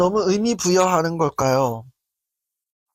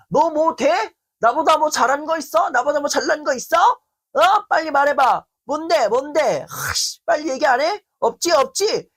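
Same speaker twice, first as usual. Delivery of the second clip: escalating berating; 7 semitones higher than usual. Shown as a demonstration. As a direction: badger them harder with each question. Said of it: "이렇게 가는 거죠".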